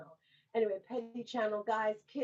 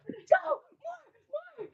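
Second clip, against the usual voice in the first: high, louder cheering from the stands; cheering shout; 5 dB louder than usual. Retold or imitated. Host cheering the young speaker from the stands, loud high shout. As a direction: egg him on like a fan. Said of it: "I'm like".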